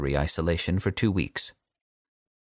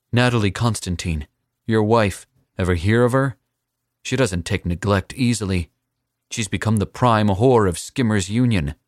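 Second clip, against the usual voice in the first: put-on louder, higher defiant young man; defiant young assassin; 4 semitones higher, 5 dB louder than usual. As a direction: throw the threat back in his face.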